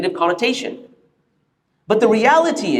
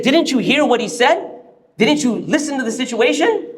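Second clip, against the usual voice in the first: higher-pitched, incredulous challenge; retold indignant questioning; a bit angry; 5 semitones higher than usual. Other scholar challenging Imam's ruling, a bit angry. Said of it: "he's a bit angry".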